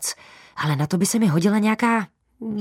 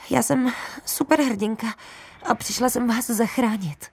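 trembling voice; 6 semitones higher than usual. Acted. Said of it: "ale třásl se mi hlas".

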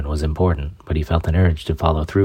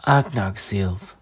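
put-on dying old woman; 3 semitones higher, 4 dB quieter, much slower than usual.

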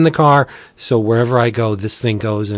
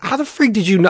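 retold astonishment; 8 semitones higher, faster than usual. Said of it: "I'm like".

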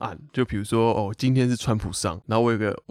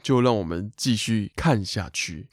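host catchphrase impression; 2 semitones lower than usual. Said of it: "这样有没有像圣主如".

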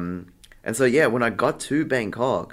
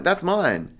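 raised-pitch mock cry of relief; retold relief; 9 semitones higher than usual. Artist spotting the lost luggage, retold relief. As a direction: act out spotting what you lost, pitch jumping. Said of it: "I was, like, so relieved".

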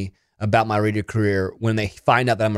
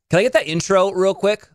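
pretend producer call; 8 semitones higher than usual. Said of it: "as if I'm talking to someone in a different room".

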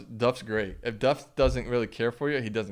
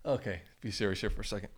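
fighting off the giggles; stifled giggles. Real, not acted. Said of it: "I'm trying not to laugh before I tell it".

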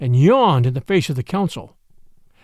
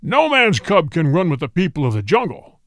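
howling tiger. A narrator's reading. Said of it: "howled Shere Khan".

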